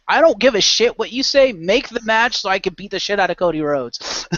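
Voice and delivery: mildly heated retold outburst; pissed off. Retelling an actor's demand to his boss, mock pissed off. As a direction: act out a fed-up demand with some force. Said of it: "he just got pissed off enough".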